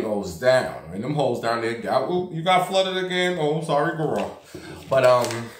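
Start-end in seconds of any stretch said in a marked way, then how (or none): 2.1-4.4 high, sing-song fake pity from the neighbours; mock sympathy. Neighbours gossiping about her flooded block, in mock sympathy. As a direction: put on a catty, fake-sorry neighbour voice.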